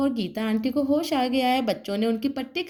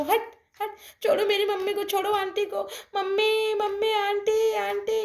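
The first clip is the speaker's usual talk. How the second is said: put-on high, urgent child cries; children driving off the bear, high and urgent; high urgent shouting; 5 semitones higher than usual. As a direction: shoo the bear and call for mummy. Children chase bear, call mother.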